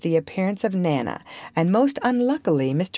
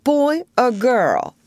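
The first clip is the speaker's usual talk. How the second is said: put-on high, slow little-boy question; not too hopeful; 7 semitones higher, 4 dB louder, slower than usual. A narrator's reading. Michael asks his mother which child, not too hopefully. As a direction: ask like a small child afraid to hope. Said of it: "not too hopefully".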